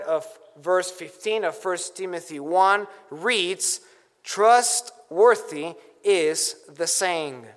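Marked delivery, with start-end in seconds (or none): 4.2-7.5 Trustworthy drawn out slowly and set apart; slow, deliberate reading that leans on Trustworthy; stress on Trustworthy. Shown as a demonstration. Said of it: "The emphasis is on trustworthy".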